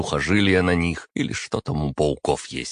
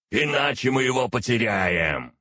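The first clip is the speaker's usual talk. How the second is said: much higher shouted telepathic order; 7 semitones higher than usual. Acted. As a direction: yell it straight into his head. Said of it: "заорал мне Архас".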